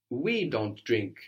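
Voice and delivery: slow, with "We" drawn out and prominent; stress on WE. Shown as a demonstration. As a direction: lean on the word "We". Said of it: "Emphasizing the word for we".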